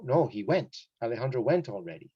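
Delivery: "went" emphasized as a correction; stress on WENT. Shown as a demonstration. Teacher answering whether Alejandro will go, "went" emphasized. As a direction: lean firmly on "went" both times. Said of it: "So I emphasize that".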